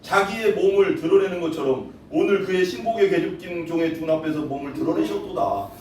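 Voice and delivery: normal talking voice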